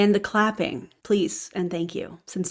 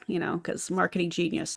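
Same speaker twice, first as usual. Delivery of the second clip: sarcastic; 5 dB quieter than usual. Real, not acted. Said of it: "Obviously, that's sarcasm".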